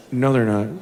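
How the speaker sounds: low, measured parental reply; restrained, low-pitched insistence; firm dad correction. Acted. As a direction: contradict the child in a low voice. Dad firmly correcting child.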